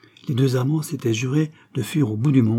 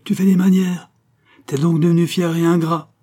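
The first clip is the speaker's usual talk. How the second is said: high, loud crone scolding; hoarse old woman; 8 semitones higher, 6 dB louder than usual. A narrator's reading. Widow Fipard reproaches her proud son, loud and hoarse. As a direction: scold him as an indignant old ragpicker. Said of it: "fit la veuve Fipard de sa voix enrouée".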